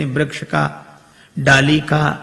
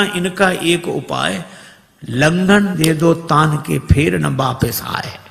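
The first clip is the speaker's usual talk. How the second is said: slow recited couplet; slower than usual. Shown as a demonstration.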